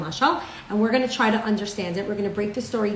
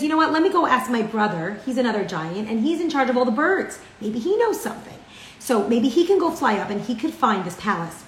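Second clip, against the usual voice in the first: eager giant; 3 semitones higher than usual. Acted. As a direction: rush it out like an eager helper. Giant eagerly offers his brother's help.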